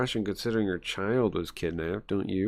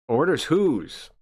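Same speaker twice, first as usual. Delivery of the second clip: slow suspicious demand; 6 semitones higher, 4 dB louder, slower than usual. Acted. Inspector suspicious of orders.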